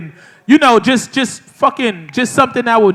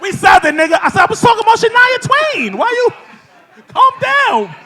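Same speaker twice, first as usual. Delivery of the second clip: higher-pitched, half-laughing mock outrage; mock offended Southerner; 11 semitones higher than usual. Co-host mocks a touchy Atlanta local, half laughing. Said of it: "anytime you say the word country in Atlanta".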